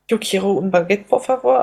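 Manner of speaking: Spanish slipped in for French; fumbling tourist asking in Spanish; fake foreign language. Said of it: "Mit meinem Fantasiefranzösisch".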